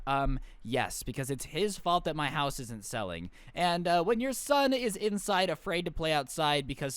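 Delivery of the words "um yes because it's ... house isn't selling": condescending. Retold or imitated. Karen answering the confronting mom, mock condescending. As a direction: imitate a smugly superior neighbor. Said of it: "Karen condescendingly was like".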